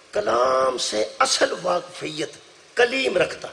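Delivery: slow, stretched-out poetic declamation; verse recitation. Acted. (ٹھہر ٹھہر کے شعر پڑھنا)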